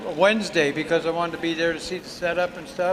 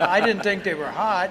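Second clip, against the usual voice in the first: laughing. Real, not acted. Laughing at winning pepper contest.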